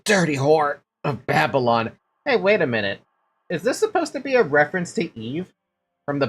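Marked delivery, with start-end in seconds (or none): 0.0-1.9 lightly voiced struggle, pitch leaping on the pleas; heated game quarrel. Streamer voicing a struggle between the woman and her attacker, hammed-up quarrel. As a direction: fight him off, panicky then spiteful. Acts out a fight in dialogue.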